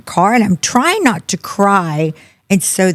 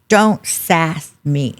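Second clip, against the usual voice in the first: slow, halting retort; struggling to speak; much slower than usual. Retold or imitated. Mother answering daughter about garbled texts, slow struggling speech. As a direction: drag the words out one at a time. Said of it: "And I can't get it out".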